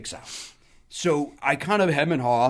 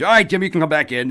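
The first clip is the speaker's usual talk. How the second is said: Rickles calling back; 5 semitones higher, 10 dB louder, faster than usual. Retold or imitated. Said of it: "Don Rickles over the top".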